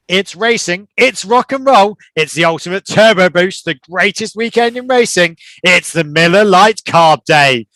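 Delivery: promo voice. Acted. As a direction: sell it like a radio commercial for race weekend. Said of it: "I was just doing some sort of promo".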